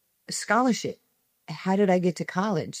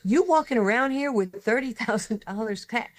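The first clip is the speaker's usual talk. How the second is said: shocked disbelief; 7 semitones higher than usual. Retold or imitated. Lady shocked by cash amount.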